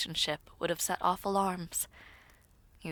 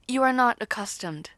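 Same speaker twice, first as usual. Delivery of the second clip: ARE punched higher and louder; firm emphasis; 6 semitones higher, 8 dB louder than usual. Acted. Princess correcting her awkward words, emphatic stress on are. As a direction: lean hard on the word are.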